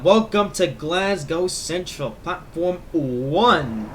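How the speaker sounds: slow, drawn-out station announcement; announcer voice. Pretend. Train announcer welcome again.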